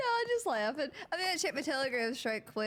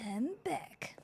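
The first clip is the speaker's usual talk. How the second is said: whispering; 3 semitones higher than usual. Real, not acted. Whispered return.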